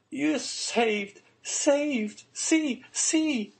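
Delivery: very high, ringing cries of joy; excited young girl. A narrator's reading. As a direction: urge him to look, pitched right up. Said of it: "said the young girl".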